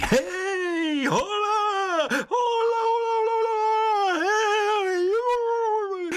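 very high, far-off forest spirit calling; joyful hooting call from the bushes; merry forest call. Acted. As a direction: whoop it out like a cheerful woodland sprite. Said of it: "ozvalo se veselé volání".

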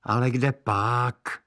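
put-on boy's voice. Brother corrects sister.

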